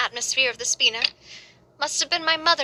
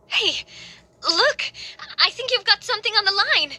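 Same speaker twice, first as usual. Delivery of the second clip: calling to friends as the fishing line bites, excited; 7 semitones higher than usual. Acted. Calling out at a fish bite.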